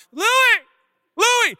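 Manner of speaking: high, loud panicked call of the name; panicked calling of the dog. Retold or imitated. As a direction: call the hurt dog's name in alarm. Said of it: "And I'm like".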